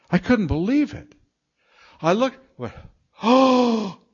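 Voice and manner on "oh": high gasped oh of wonder; awed gasp. Retold or imitated. Preacher reliving his first sight of the Milky Way, gasping in awe. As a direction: gasp at the sky in sudden awe.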